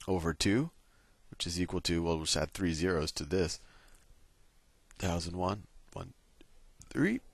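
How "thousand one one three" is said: words broken by a burp; a burp escapes mid-number. Real, not acted. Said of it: "that was my first burp ever".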